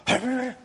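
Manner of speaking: high-pitched imitated tongue noise; mock dinosaur-tongue noise. Shown as a demonstration. Speaker demonstrating an external force to listeners, high mock tongue noise. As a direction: make a brief, high dinosaur-tongue sound. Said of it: "就是这样".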